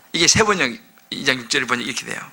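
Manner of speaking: normal talking voice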